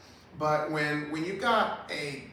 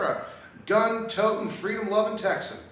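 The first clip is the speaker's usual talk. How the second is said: mock proud Texan boast, higher and louder; 5 semitones higher, 4 dB louder than usual. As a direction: ham up the patriot pose. Mocking politician's Texan pose.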